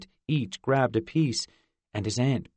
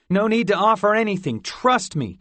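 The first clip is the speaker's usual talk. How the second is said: eager; 9 semitones higher, 6 dB louder than usual. Acted. Fort eagerly pushing the box.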